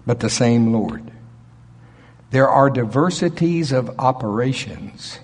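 measured reading with weight on "same"; emphatic scripture reading. Shown as a demonstration. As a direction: read the verses deliberately, leaning on "same" each time. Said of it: "put some emphasis on certain words".

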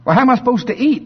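high, fast, pleading little chick; whiny chick. Acted. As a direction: plead with mama like a young chick. Chick pleads with mama hen.

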